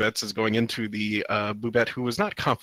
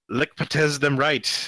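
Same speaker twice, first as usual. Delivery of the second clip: cheering; 2 semitones higher, much slower than usual. Acted. Cheering creatures read out.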